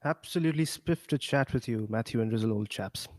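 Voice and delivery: put-on jokey posh British accent, lightly done. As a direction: greet them like a mock British gent. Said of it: "this was gonna be a posh conversation".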